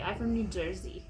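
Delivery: a light New Jersey kid accent, not much put on; lightly voiced New Jersey little boy; a hint of a New Jersey accent on "I'm from New Jersey". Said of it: "he has the New Jersey accent".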